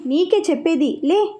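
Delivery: stern command, rising high; elder sternly orders the weeping girl up. Acted. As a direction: order her to get up. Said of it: "voice పెంచేసరికి".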